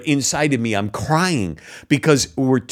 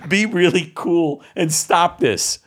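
mock kid; 4 semitones higher, slower than usual. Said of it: "What eight-year-old kid is gonna say this".

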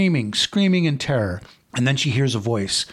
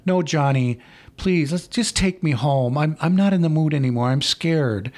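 put-on nervous girlfriend; 3 semitones higher than usual. Girlfriend begging Johnny in the parked car, nervous and pleading. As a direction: voice raised a little, pleading to go home. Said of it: "she's increasingly nervous".

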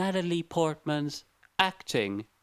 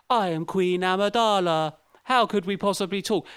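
stiff, regal mock Amidala, a bit higher and louder; stiff queen voice; 4 semitones higher, 3 dB louder than usual. Mocking the actress's in-makeup line reading, stiff and regal. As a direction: play it wooden and grand, like a queen in heavy makeup. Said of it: "talking like Natalie Portman in makeup".

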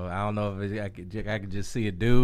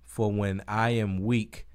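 slow, measured Bible reading; scripture reading; slower than usual. Acted. To a co-host on air, reading Corinthians slowly and reverently. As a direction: read the verses slowly, with reverence.

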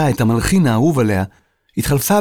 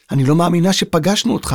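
high, amazed admiration; thrilled fan; starstruck; 6 semitones higher than usual. A narrator's reading. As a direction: tell your idol you can't believe it. Starstruck girl meets her idol.

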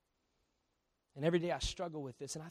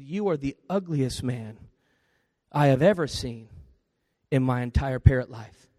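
slow, loud, lowered parrot voice; insulting parrot; 4 semitones lower, 11 dB louder than usual. Acted. Parrot insulting a customer to his face, slow and emphatic. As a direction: deliver the insult slowly with heavy weight.

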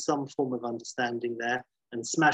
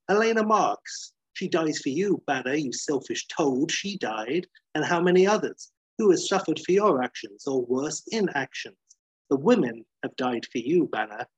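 accusing; 3 semitones higher than usual. Acted. McGee accusing Banner over the women who died, heated. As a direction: lay into him with a pointed charge.

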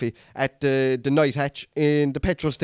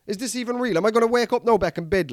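disbelieving; 7 semitones higher than usual. Retold or imitated. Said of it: "I'm like".

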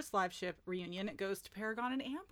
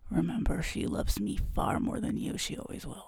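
Paragon; 2 semitones lower, 7 dB louder than usual. Acted. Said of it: "He says".

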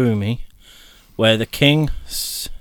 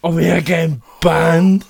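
laughing; 5 semitones higher, 4 dB louder than usual. Real, not acted. Laughing fit.

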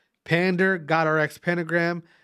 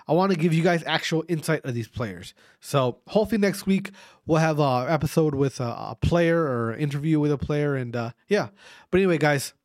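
mouth full of saliva. Real, not acted. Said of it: "I have a lot, lot, lot of saliva in my, my mouth".

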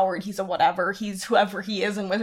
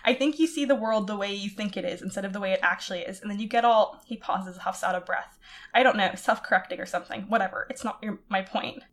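story reading. Acted. Reads fanfic passage aloud.

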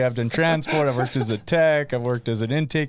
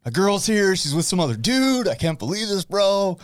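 higher-pitched imitation of a panicked guy; mock freak-out in a higher voice; Trav freaking out; 5 semitones higher, slower than usual. Counselor retells a big dude's meltdown over his girl, mock panicked. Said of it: "he was freaking out".

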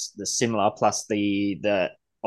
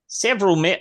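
attempted Pommy accent; 8 semitones higher, 5 dB louder than usual. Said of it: "if I try and do a Pommy".

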